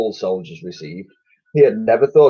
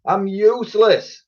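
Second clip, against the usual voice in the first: defeated; 12 semitones higher than usual. Acted. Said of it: "bowing his head in defeat".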